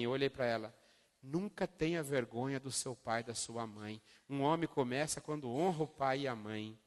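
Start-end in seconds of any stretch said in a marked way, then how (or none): 1.2-6.8 teacher's gentle counsel. Retold or imitated. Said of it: "Ela falou assim".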